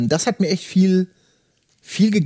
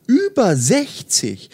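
slow, higher, drawn-out "Über sechzig"; astonished echo; 3 semitones higher, much slower than usual. Acted. Cat Otsuka echoing Nakata's age, slow, higher, amazed.

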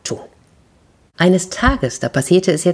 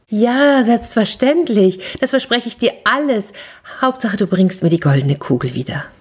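higher, breezy hasty promise; princess voice; 6 semitones higher than usual. Acted. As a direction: promise everything just to get the ball.

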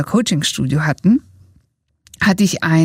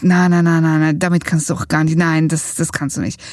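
doubting inner voice; 2 semitones lower than usual. Retold or imitated. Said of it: "dann kommt noch eine Stimme".

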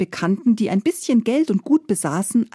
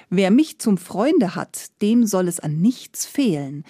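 smiling. Acted. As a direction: let the smile be heard, unhurried. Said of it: "sagte der Tod lächelnd".

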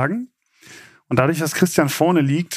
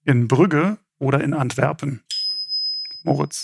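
game show host. Acted. Host reads quiz question.

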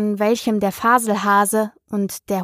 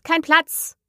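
cry out, repeated; 7 semitones higher than usual. A narrator's reading. Hare and hatter repeat their cry to Alice, a high echo. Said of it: "riefen sie aus".

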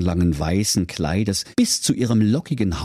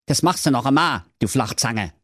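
put-on lightly higher grumpy old man warning; a mock threat from a cranky elder; mild high grumbling threat; Wilhelm's voice; 4 semitones higher than usual.

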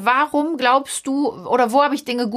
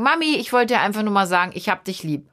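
put-on sweet child's words; 2 semitones lower than usual. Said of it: "könnte man ja auch selbstverständlich mal Liebe kippen und sagen".

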